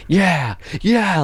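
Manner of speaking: a caught-up, rising yeah yeah; excited crowd. Retold or imitated. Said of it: "they were getting more excited".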